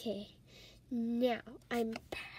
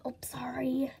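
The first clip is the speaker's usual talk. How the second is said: sheepish whisper; 3 semitones lower, 3 dB quieter than usual. Acted. Told to talk quieter.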